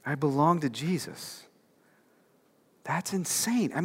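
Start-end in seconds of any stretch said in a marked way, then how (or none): 0.1-1.4 low, hushed, acting out Stephen's private resolve; quiet self-reminder. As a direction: softly remind yourself, as if playing him. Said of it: "he reminded himself".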